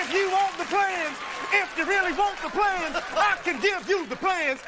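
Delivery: mock TV preacher, building up; televangelist. Guard preaches to intruder like a religious channel host. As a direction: preach at the stranger like a TV evangelist. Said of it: "religious channel".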